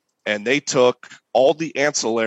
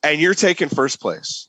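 retold rant. Contest critic messages the cook about the soup, retold rant. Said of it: "this person goes off on me".

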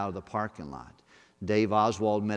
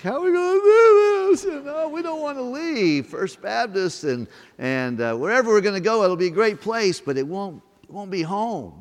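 high, wailing imitation of their own crying, much higher and louder; hammed-up teary wail, pitched way up; mock crying; 10 semitones higher, 8 dB louder than usual. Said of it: "We're crying and like".

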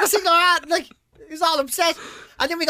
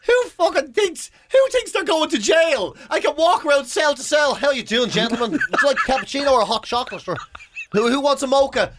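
mock fancy server; 5 semitones higher than usual. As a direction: play a jail barista getting carried away. Mocking a prison coffee server.

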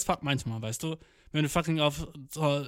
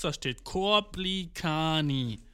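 slow reading; much slower than usual. Retold or imitated. Steffen reading the band name.

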